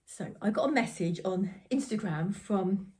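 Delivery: slow, breathless from the stairs; out of breath. Real, not acted. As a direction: talk winded after running upstairs. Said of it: "I'm out of breath".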